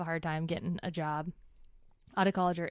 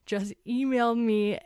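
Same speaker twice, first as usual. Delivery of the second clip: freaking out. Retold or imitated. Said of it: "like, freaking out".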